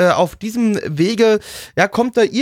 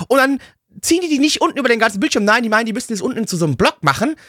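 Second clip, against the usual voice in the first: ranting; 4 semitones higher than usual. Real, not acted. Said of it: "Mini-Rant mal wieder über Amazon".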